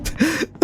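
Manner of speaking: high, soft burst of laughter. Real, not acted. Gamer cracks up at a Pizza Tower crossover, laughing. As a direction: crack up quietly.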